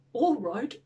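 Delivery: amused monster laughing after the words; agree, then break into a laugh; acted creature chuckle; bursting with laughter. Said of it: "bursting with laughter".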